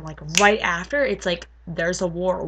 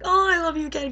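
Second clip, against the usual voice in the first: gushing adoration; 8 semitones higher, faster than usual. Retold or imitated. Retold swing back to adoring.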